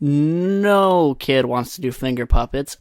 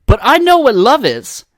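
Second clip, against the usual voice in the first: loud, high, overblown recital; hammy audition piece, badly acted; bad actor's movie monologue; 4 semitones higher, 8 dB louder than usual. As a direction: belt out the line with no character voice. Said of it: "You didn't even make the voice".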